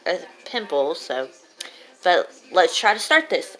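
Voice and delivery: talking through a swollen lip; slightly thick speech from a sore lip. Real, not acted. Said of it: "I apologize if I sound a little weird. I have a swollen lip".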